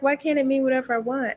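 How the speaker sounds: a lightly voiced aunt; imitating aunt. Aunt defending her emoji use, lightly voiced whine. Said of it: "she's like".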